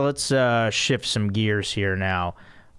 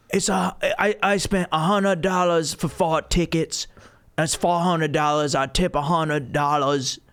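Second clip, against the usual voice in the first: raised put-on Asian accent; 4 semitones higher than usual. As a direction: imitate a complaining customer with an Asian accent. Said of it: "like, an Asian accent".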